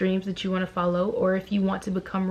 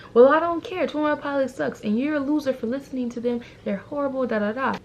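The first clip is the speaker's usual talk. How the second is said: mock bully; 5 semitones higher than usual. Bully Jimmy voiced in story.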